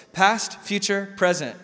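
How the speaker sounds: past, future, present spelled out slowly; slow listing. Shown as a demonstration. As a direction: lay out each bucket word by word. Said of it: "three buckets".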